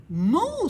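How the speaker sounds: cheerful mock cow moo; loud moo. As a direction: moo out proudly. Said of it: "said the cow".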